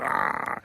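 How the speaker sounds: unpitched throaty "ah"; mock gobbling noise. Buzz shoves Kevin's pizza in, mock gobbling noise. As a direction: imitate cramming food into the mouth. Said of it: "shoving it in his mouth".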